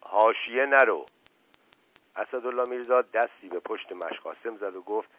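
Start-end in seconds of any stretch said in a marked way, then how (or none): 0.0-1.1 curt, sharp don't-ramble; stern uncle snapping at the servant; sharp rebuke. Acted. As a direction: cut him off sharply. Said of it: "با لحن تندی گفت".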